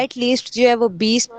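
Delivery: choppy online call audio; words dropping out over bad connection; voice cutting out. Real, not acted. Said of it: "आपकी आवाज़ cut रही है".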